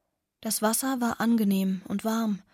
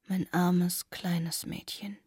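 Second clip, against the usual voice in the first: tender whisper; 2 semitones lower, 4 dB quieter, much slower than usual. Acted. Anne's tender words to her.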